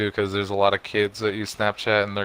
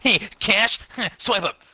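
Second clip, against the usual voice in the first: high, hammed-up ad pitch; mock ad voice; 11 semitones higher, 5 dB louder than usual. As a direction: parody a cheesy phone ad. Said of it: "those fucking people in their cars".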